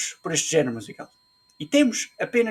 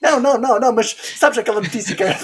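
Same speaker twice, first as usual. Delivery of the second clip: excited; 5 semitones higher, 6 dB louder, much faster than usual. Real, not acted. Excited laughing rush about news.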